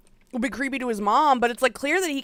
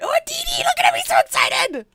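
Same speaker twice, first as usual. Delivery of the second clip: cooing at a pet; 5 dB louder than usual. Real, not acted. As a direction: gush over the dog, way up high.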